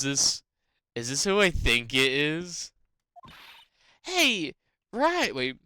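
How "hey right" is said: high, loud southern call; rough attempt at southern twang; southern accent. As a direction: holler in a put-on southern accent. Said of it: "southern accent, southern accent".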